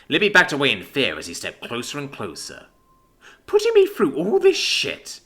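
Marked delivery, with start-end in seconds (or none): 3.4-5.2 slow, high, loud angry snarl; angry growl. Acted. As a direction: spit out the grievance slowly. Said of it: "he growled".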